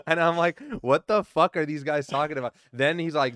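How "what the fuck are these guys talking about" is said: loud, high-pitched incredulous exclamation; retold disbelief. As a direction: re-enact total bafflement, much louder and higher. Retelling his disbelief at rumours.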